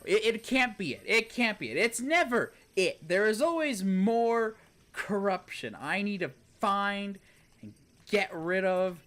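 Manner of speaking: exasperated disbelief; frustrated outburst. Real, not acted. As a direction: vent at the game, fed up. Frustrated rant at game.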